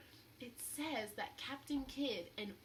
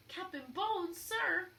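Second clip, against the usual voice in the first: higher and louder, calling out the window; shouted call; 8 semitones higher, 6 dB louder, slower than usual. Acted. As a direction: call up to the captain. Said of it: "he shouted".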